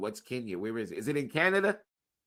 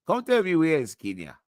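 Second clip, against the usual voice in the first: calling out; 5 semitones higher, 11 dB louder than usual. Pretend. Mock accent calling Thomas.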